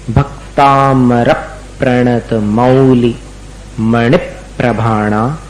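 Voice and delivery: slow syllable-by-syllable recitation; careful pronunciation. Shown as a demonstration. Teacher reciting slowly for students to copy. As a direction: spell out every sound slowly for the class. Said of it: "पहले उच्चारण सुन लीजिएगा".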